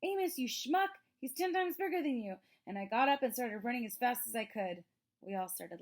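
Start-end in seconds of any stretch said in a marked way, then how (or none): 0.0-2.4 high, loud mock panic yell; retold yell. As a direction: replay the frantic shout for laughs. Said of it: "I was like".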